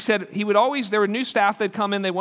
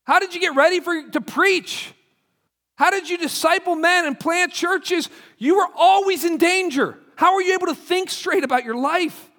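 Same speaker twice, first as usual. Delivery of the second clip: reader marvelling at Paul, pitched up; amazed questioning; 6 semitones higher than usual. Retold or imitated. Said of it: "I go".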